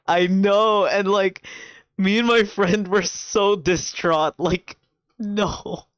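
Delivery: distraught outburst. Real, not acted. Friend recapping a K-drama twist, distraught and high. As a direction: squeal it out in dismay.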